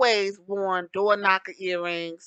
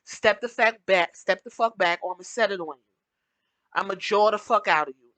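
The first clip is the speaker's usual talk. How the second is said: mad voice demo; faster than usual. Shown as a demonstration. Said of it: "I get mad and I probably sound like".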